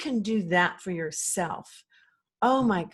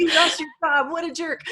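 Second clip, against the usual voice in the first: louder, higher taunting little gremlin voice; a hammed-up gremlin jeering; mocking inner gremlin; 8 semitones higher, 7 dB louder than usual. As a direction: needle yourself like a nasty inner critic. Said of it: "these little gremlins".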